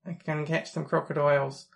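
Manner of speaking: a light, jokey ocker Australian accent; playful mock Australian accent showing it off to a friend; stereotype Australian accent. Shown as a demonstration. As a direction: lightly put on a cartoon Aussie accent, crikey and all. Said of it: "I can speak in an Australian accent if you want".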